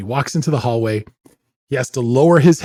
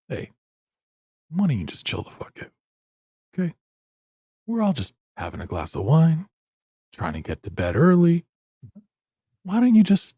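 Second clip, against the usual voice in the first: calm cool Nash. Retold or imitated. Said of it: "He's cooler than the other side of the pillow".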